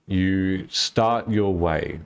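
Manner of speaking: slow, measured scene setting; game master narration. Acted. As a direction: set the scene slowly for the players. Game master describing the travel.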